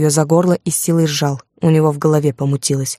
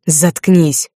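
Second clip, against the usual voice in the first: hissed through teeth; 3 dB louder than usual. A narrator's reading. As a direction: spit it out between clenched teeth. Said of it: "процедил Артур".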